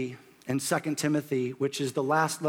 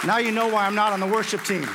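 quick, louder joke ending in a laugh; self-mocking joke; 5 semitones higher, 4 dB louder, faster than usual. Real, not acted. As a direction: laugh at your own singing. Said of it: "my voice is completely shot".

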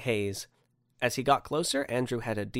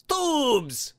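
high, drawn-out exclamation; shout; 4 dB louder than usual. Acted. Santa reveals his theme to puzzled man, exclaiming. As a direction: cry it out like a grand revelation. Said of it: "shouted Santa".

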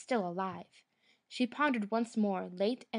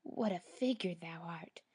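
soft wheedling whisper; 4 semitones lower, 6 dB quieter than usual. A narrator's reading. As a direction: breathe it in a sly whisper. Old woman coaxing Snowdrop.

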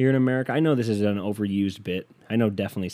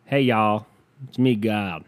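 put-on botched Southern accent, louder on the greeting; half-hearted Southern drawl; Southern God; 4 dB louder, slower than usual. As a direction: attempt a God from the American South. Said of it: "I gotta do the fucking accent".

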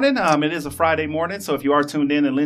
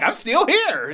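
high laughing voice; 9 semitones higher, much slower than usual. Retold or imitated. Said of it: "she was like".

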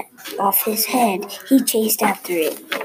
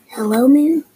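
loud, higher call up to the sky; shouting to the moon; 6 semitones higher, 7 dB louder than usual. A narrator's reading. Bear shouts from a treetop up to the moon, loud call. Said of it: "he shouted".

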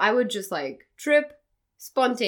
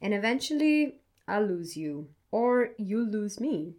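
poem reading. Acted. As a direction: read it gently, like a confession. Reads her poem aloud.

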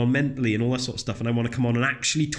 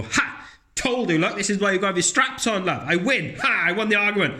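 higher, smug "told you so" gloat; gloating dad; 6 semitones higher than usual. Pretend. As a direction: crow over your daughter like you won. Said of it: "I can go up to her and go".

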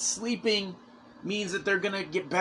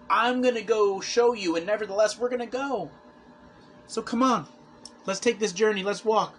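retold urging; 5 semitones higher than usual. Voices Christ rallying the disciples.

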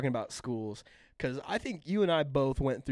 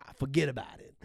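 put-on New York Italian-ish accent; faster than usual. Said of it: "New York Italian-ish accent".

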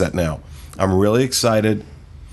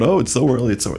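higher-pitched mock moan; mock whining; 4 semitones higher, faster than usual. Host mimicking gripes about an early Halloween season, mock whining. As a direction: imitate a complainer moaning. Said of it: "we can whine and moan about".

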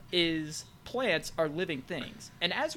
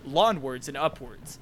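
cheesy infomercial pitch; ad read. Acted. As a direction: sell it like a TV ad. Mock sponsor ad read.

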